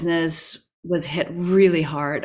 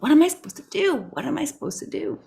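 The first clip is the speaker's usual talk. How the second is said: pleading to the sky; 9 semitones higher, much faster than usual. Retold or imitated. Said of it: "going into the forest and like".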